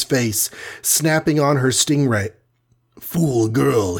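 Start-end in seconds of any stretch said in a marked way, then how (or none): 3.0-4.0 mild outcry with a scornful villain's edge; crying out. A narrator's reading. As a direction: cry out at a foolish girl, at normal volume. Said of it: "he cried".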